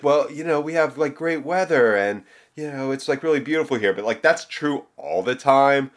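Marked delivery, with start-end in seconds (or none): 0.0-3.9 higher-pitched mock San Diegan voice; put-on high voice of hometown boosters; imitated locals. Imitates locals defending San Diego.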